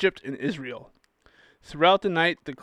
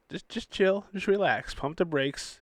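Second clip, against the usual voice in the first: softer, calming chill voice; soothing Moses; 3 semitones higher, 5 dB quieter than usual. Retold or imitated. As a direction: tell them to relax, easygoing. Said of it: "he's like".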